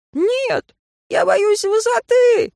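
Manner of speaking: very high, loud, slow frightened wail; panicked refusal. Acted. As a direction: squeal in terror of the height. Terrified boy refuses to jump.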